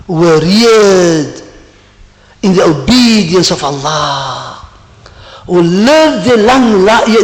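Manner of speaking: slow, stretched sermon phrasing; solemn preaching. Acted. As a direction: proclaim each phrase slowly and deliberately. Preacher proclaims hadith.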